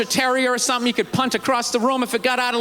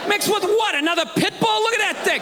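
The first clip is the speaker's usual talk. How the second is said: incredulous; 7 semitones higher than usual. Retold or imitated. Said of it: "retorting to girlfriend".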